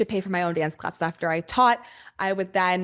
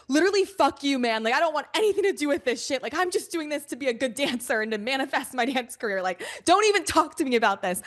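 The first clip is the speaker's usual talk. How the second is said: higher, fed-up outburst; a hint of heated snapping; mock angry; 4 semitones higher than usual. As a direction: play the offended young dancer. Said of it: "I got so pissed at him".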